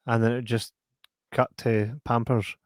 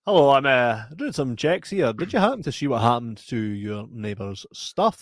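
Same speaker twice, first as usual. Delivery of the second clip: mock inquiry; 4 dB louder than usual. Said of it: "pretend door-to-door questioning".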